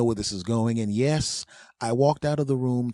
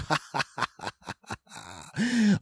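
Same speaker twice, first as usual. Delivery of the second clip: mocking laugh; 6 semitones higher than usual. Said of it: "he's laughing like".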